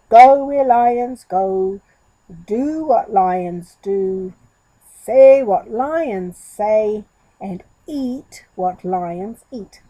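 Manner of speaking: slow, loud mock-lion goat voice; a goat trying to sound like a lion; deep goat-like tone. Goat walking down the road reciting the rules, slow and loud. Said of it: "a new, deep, goat-like tone".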